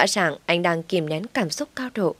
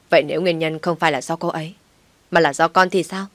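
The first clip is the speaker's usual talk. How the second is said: raised voice. Acted. Son defending his wife against his mother, raised voice. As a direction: push back at his mother firmly. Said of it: "anh lớn tiếng".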